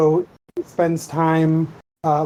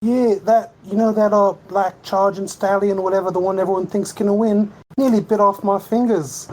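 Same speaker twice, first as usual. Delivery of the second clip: raised pitch, British lad complaining; stable boy banter; 4 semitones higher than usual. Pretend. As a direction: play a British stable hand griping to a mate. Answers in stable boy role.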